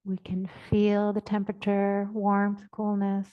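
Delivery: measured, even phrases, long silences between; guided meditation. Real, not acted. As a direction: guide listeners unhurriedly into the body. Leads a body awareness meditation.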